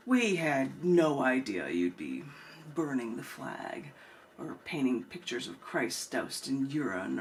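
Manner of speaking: spoken-word poem, told as a story with voices; poem performance. Acted. Poet reading her poem to the open mic crowd, performed.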